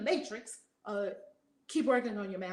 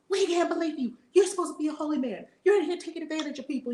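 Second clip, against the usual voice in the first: mock outrage; 6 semitones higher, faster than usual. Outraged parents confront the monk.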